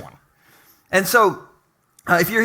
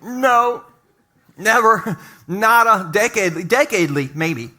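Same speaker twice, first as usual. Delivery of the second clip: mock spouse answer; slower than usual. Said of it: "their answer might be".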